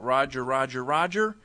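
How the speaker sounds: yell out. Shown as a demonstration. Linebacker calling strength right, demo shout. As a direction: call it out across the field. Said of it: "He would yell out".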